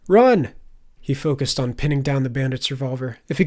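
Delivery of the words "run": high, loud urgent command; warning shout. A narrator's reading. Turner tells Faye to flee the bandits, urgent shout. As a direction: shout it to make her flee. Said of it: "Turner shouted".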